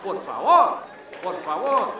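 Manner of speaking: mocking kid whining in class; half-mocking schoolboy plea; bored student. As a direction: whine the words from the back row. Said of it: "in the back of the class going".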